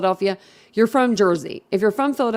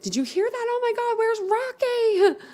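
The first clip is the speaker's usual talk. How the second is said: retold panic; 14 semitones higher, 4 dB quieter than usual. Telling viewers how she ran out calling for Rocky, panicked. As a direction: replay the frightened rush outside. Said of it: "And I'm like".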